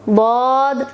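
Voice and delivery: slow letter-by-letter recitation of the alphabet; reciting Arabic letters. Shown as a demonstration. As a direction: say each letter alone, clearly, with a pause. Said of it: "आज हम सिर्फ हुरूफ की अदायगी करेंगे". (अरबी हुरूफ़ की धीमी, साफ़ अदायगी)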